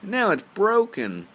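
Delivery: high, loud squeaky cub; Baby Bear's tiny voice. Acted. Baby Bear finds his chair used, high squeal.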